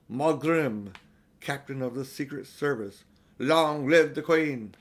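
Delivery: signing off an official notice; reading out loud. A narrator's reading. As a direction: proclaim it, loud on the closing salute. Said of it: "he read out loud the following words".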